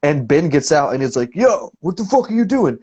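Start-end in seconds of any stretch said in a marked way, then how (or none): 1.3-2.8 high-pitched mock outrage; acting out a bandmate calling someone out; retold confrontation. Confronting man peeing on van.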